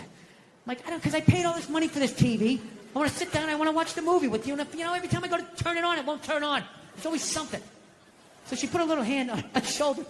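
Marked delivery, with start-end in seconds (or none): 0.9-7.6 higher-pitched helpless complaining; softly exasperated dad excuse; mock whiny excuse. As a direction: explain yourself plaintively to a kid. Whiny excuse to his child.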